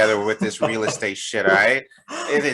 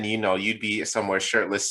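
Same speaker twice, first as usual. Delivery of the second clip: normal talking voice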